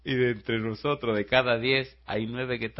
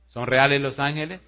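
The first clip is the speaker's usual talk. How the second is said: "reales" pushed up, louder and rising; louder repeat; 4 semitones higher, 10 dB louder than usual. Shown as a demonstration. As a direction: hammer the question home the second time.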